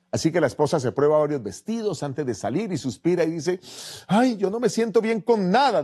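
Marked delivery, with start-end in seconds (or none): 4.1-5.8 insecure wife. Acted. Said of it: "dice ella".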